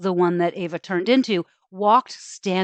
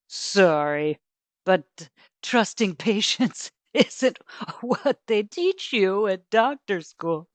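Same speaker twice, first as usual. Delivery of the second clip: amused brush-off. Acted. Doctor brushes off Ava.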